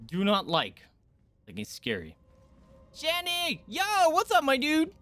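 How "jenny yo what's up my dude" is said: high, loud cheerful greeting; excited greeting. Real, not acted. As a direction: greet a friend who just walked in. Greeting a donor on stream.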